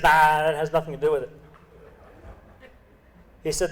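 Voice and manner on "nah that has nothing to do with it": put-on Russian accent. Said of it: "the Russian accent".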